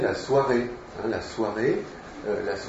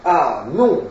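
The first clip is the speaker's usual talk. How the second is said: raised, louder wail of refusal; moaning protest; 4 semitones higher, 6 dB louder than usual. A narrator's reading. Turando refusing what Charles reports, moaning. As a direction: groan it out in mock despair. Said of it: "gémit Turando".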